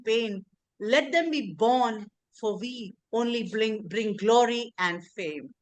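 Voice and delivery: earnest, measured poetry reading; poem recitation. Acted. Recites her own poem.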